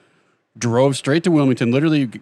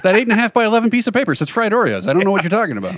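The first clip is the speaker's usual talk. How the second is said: mock incredulous; 7 semitones higher, faster than usual. Mock arguing about paper sign.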